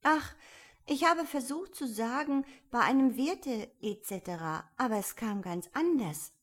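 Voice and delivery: a touch of downcast lament; dejected. A narrator's reading. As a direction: sigh out a confession of failure. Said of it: "in niedergeschlagenem Tone".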